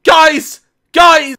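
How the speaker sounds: loud, high wailing call after friends; mock desperate call. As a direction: cry out for them to come back. Mimicking the meme clip's call.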